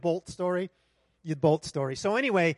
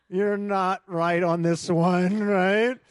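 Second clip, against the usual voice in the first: slow, loud laughing protest; laughing retort; 6 dB louder, much slower than usual. Retold or imitated. Preacher telling God he's wrong, laughing. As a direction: laugh it off at the Lord.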